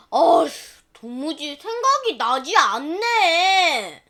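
slow, fretful groan of forgetting; frustrated sigh. Acted. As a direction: sigh it out, stuck and vexed. Farmer can't remember.

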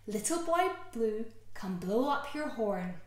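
lilting rhyme, slow swell on the cow's in the corn; nursery rhyme. Acted. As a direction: read it for little ones. Reading a rhyme to children.

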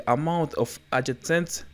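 English terms with a French accent; real French accent on English words. Real, not acted. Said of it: "Désolé pour mon accent anglais".

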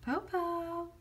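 high loud call; shouting. Acted. Shang shouting after the fallen wolf. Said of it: "Shang shouted".

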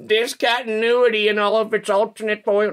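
high, loud, thrilled reveal; excited announcement. Real, not acted. Announces the exciting foil pull.

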